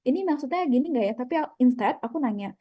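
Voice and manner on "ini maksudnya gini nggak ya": checking question. Shown as a demonstration. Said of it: "Tapi tanyanya tuh kayak".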